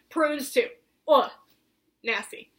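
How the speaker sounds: breathy aside, grossed out; disgusted whisper. Real, not acted. Telling viewers about hated prunes, whispered in disgust.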